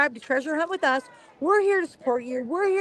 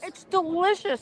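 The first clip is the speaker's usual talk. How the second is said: chewing steak; 4 semitones higher, slower than usual. Real, not acted. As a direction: mouth full of beef stick. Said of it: "I'm eating with the top of my mouth".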